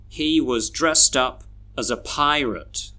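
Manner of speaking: "was", "as" and "a" reduced to a short uh; natural reading, unstressed "was", "as", "a" weakened to uh; schwa weak forms. Shown as a demonstration. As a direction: lightly pass over "was as a" with schwa vowels. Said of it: "we should read these sentences like this".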